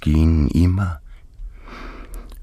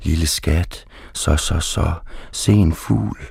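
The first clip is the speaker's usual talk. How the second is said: soothing the dog; 2 semitones higher than usual. Retold or imitated. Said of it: "prøver at berolige ham".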